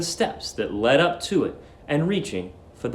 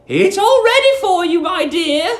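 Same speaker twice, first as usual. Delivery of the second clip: sweet landlady; 13 semitones higher, 4 dB louder than usual. Acted. Landlady luring the young lodger, high sugary coo. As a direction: coo at him like a doting landlady.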